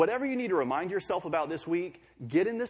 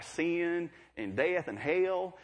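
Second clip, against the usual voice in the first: Tennessee preacher; 3 semitones higher, much slower than usual. Retold or imitated. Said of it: "in Tennessee there in Bible college".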